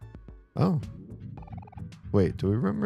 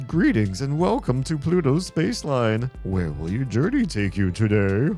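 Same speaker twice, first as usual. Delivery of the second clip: clown voice. Acted. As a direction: play it like a cheerful clown. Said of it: "a clown voice or something".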